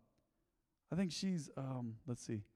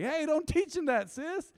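retold warning; 12 semitones higher, 5 dB louder, slower than usual. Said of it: "And I'm like".

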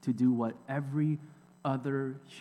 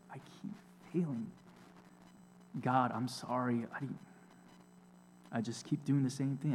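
softer, halting prayer of a man who keeps failing; humble confessing prayer; 6 dB quieter than usual. Pretend. Sinner confessing to God, hushed and halting. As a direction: pray it quietly, as if owning every failure. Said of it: "think about it in your own words".

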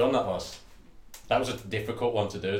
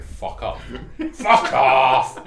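mock yell; 2 semitones higher, 9 dB louder, much slower than usual.

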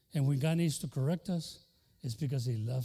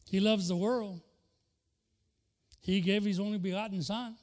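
fired-up preaching; 4 semitones higher than usual. Acted. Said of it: "vamos a enseñarle".

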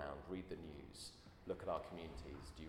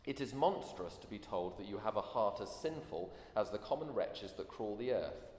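indignant aristocratic lady, louder; terse haughty letter; 2 semitones higher, 6 dB louder than usual. Retold or imitated. Preacher reading the duchess's letter, mild haughty indignation. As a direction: read it out with offended upper-class scorn. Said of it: "polite but rather terse letter".

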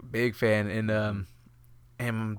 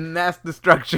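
slow announcer read; 3 semitones higher, 3 dB louder, much slower than usual. Pretend. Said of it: "our little board just says".

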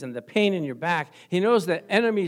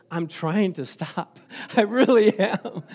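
earnest plea; slower than usual. Retold or imitated. Newcomer pleads earnestly.

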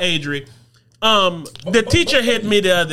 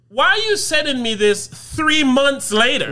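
retold indignant complaint; 4 semitones higher than usual. Parent retells confronting the teacher.

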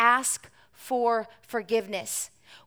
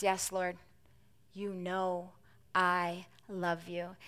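humble reply; 5 semitones lower, 10 dB quieter, slower than usual. A narrator's reading. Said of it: "Peter's humble reply".

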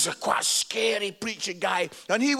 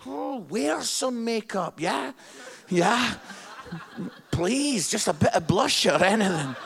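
laughing mock pleading; joking plea through laughter. Joking that he tells people to wear makeup, laughing. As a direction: beg them playfully while laughing. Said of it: "I actually go around saying".

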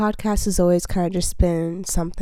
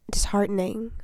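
breathy whispered word, disheartening; disheartening whispered unvoiced, then repeated; whispering; 5 dB quieter than usual. Real, not acted.

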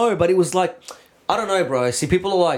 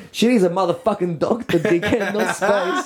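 higher-pitched retold exasperation; exasperated retort; 4 semitones higher than usual. Clubber telling off the crowd around her, exasperated. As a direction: indignantly put the fool straight. Snaps back at friend in retold scene.

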